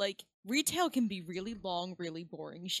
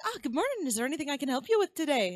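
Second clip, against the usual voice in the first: higher-pitched Southern greeting; put-on Southern accent; 6 semitones higher than usual. Retail worker greeting a customer, in a put-on Southern accent. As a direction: imitate your own Southern accent for a customer. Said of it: "Weren't you Southern twenty minutes ago?".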